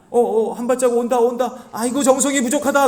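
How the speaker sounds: loud, high shaman imitation; hammed-up shaman calling in a spirit; mock shaman show. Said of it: "이런 식으로 하는 거예요". (무당 흉내로 높고 요란하게)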